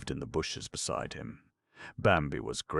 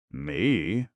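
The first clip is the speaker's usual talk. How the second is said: a louder, startled Me; astonished jay; 3 semitones higher, 6 dB louder than usual. Acted. Jay answering the crow, mildly astonished. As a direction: bounce it back in disbelief. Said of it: "retorted the jay in astonishment".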